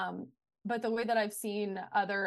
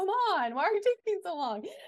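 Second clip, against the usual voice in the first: mock shrill, high, raised, exasperated, frustrated tone; 10 semitones higher, 5 dB louder than usual. Retelling talking to a slow-updating computer, acting out frustration. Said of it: "I'm getting really frustrated".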